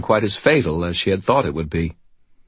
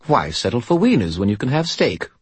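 bright; 5 semitones higher than usual. Acted. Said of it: "the Skull said brightly".

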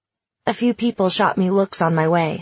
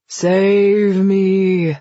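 loud, drawn-out mock plea; dramatic plea; 5 dB louder than usual. Friend texting to escape a party, pleading dramatically. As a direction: stretch it out like a cry for rescue.

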